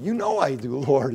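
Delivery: mildly exasperated, acted-out protest; upset. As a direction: imitate someone hurt at being doubted. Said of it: "Peter got upset".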